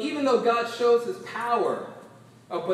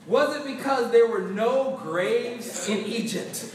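sarcastic. Retold or imitated. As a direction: needle Moses with a sneer. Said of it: "I love the sarcasm here".

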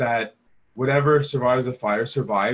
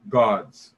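"God's" punched louder, falling; emphasis on God's; 3 semitones lower, 5 dB louder than usual. Shown as a demonstration. Preacher stressing whose field it is, emphatic "God's". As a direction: land hard on "God's".

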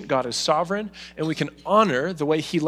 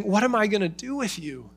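anguished father; 4 semitones higher than usual. Retold or imitated. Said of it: "he's navigating his own emotions here".

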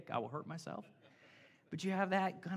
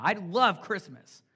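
shouted together; 6 dB louder, slower than usual. Shown as a demonstration. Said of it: "just scream it out".

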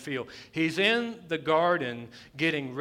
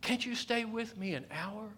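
hushed plea; 5 semitones higher, 8 dB quieter than usual. Acted. Plea repeated, now hushed.

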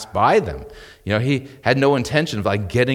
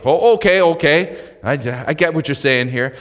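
surprised realization; 5 semitones higher, 4 dB louder than usual. Acted. Listener reacts to strong answer.

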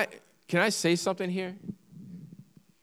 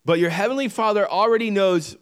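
loud proclamation; 5 semitones higher, 6 dB louder than usual. Real, not acted. Preacher reading, rising to congregation.

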